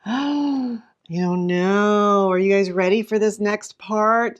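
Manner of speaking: very slow drawn-out teasing; teasing suspense. Shown as a demonstration. Teacher teasing the class before the reveal, drawn out. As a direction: stretch the words to make them wait. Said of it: "build anticipation".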